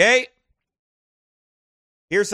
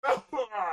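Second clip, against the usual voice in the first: real sneeze then a laugh; sudden sneeze, laughing after it; sneezing; 8 semitones higher, 4 dB quieter than usual. Real, not acted. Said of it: "I'm gonna sneeze".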